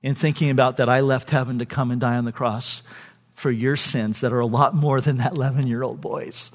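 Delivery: low, soft, grave reproach; hushed, sober rebuke, retold; convicting inner voice. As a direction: speak low and quietly, as conscience. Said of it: "My second thought was very convicting".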